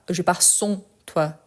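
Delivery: slow "Je pars sans toi" with "sans" cut short; slow wrong version. Shown as a demonstration. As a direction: say it slowly the way not to say it. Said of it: "on ne dit pas".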